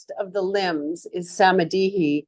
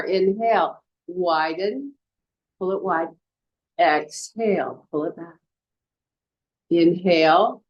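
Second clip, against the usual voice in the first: guided breathing cues. Acted. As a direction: talk the class through each breath, unhurried.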